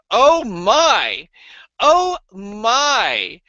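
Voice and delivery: imitating a delighted friend; amazed. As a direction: marvel at the taste. Dan tasting, amazed.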